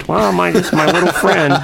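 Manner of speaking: high mock-tender whimper; hammed-up sentimental voice; Dave's sentimental speed. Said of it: "he has, like, these two speeds".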